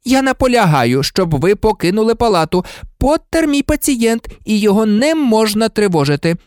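high, insistent nurse's scolding; cross, high-pitched insistence; angry. A narrator's reading. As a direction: firmly order everyone out of the ward. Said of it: "розсердилася мадам Помфрі".

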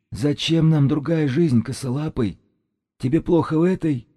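high-pitched eerie shaman, scraping on the nerves; high, grating sorcerer. A narrator's reading. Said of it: "Голос шамана скрёб по нервам, как металл по стеклу".

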